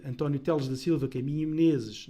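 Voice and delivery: usual speaking voice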